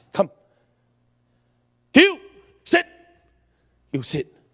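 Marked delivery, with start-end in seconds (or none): 0.1-2.9 very loud, raised voice of authority. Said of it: "This is what I always do".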